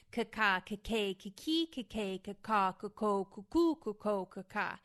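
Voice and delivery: loud, crisp overemphasized K syllables; vocal warm-up syllables. Shown as a demonstration. Actor running the K round of her warm-up, loud and crisp. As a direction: snap every K and stretch the vowel. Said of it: "overemphasize the vowels and the consonants".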